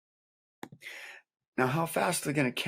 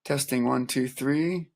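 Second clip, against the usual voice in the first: mic check; slower than usual. Shown as a demonstration. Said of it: "Bring up a little higher".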